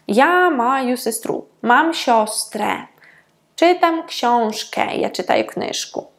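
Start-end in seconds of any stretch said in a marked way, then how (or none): 1.6-2.9 сьострę slowly, final ę as plain E. Shown as a demonstration. Teacher showing the accusative, сьострę slowly with plain final E. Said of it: "вимовляється як просто е". 3.5-5.0 książkę slowly, final ę as a plain E. Shown as a demonstration. Teacher showing the accusative, książkę slowly with plain final E. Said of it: "вимовляється як просто е".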